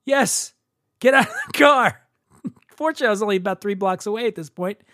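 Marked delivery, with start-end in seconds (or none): 0.0-2.0 put-on high-pitched, insistent Persian-accented order. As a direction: imitate the Persian driver throwing him out. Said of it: "I'm doing the accent".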